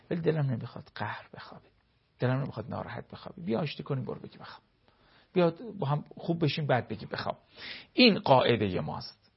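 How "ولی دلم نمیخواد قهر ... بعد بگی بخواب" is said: softer, coaxing bid to make up; gentle conciliatory plea. Acted. Hurt spouse asking to make up before sleep, gently coaxing. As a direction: plead softly, as if making peace at bedtime.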